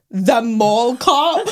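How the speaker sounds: drawn-out, rising disbelief; slow, mock-scornful query; disbelieving question. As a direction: stretch it into an incredulous question. Retold man's disbelieving question.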